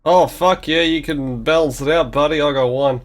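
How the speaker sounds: loud, high cheer over the dice; excited outburst. Real, not acted. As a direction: crow loudly over the roll. Reacting excitedly to dice rolls.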